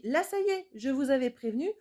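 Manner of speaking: put-on mother scolding her children, angry; angry warning. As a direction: tell them off, voice up high. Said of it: "je me mets en colère".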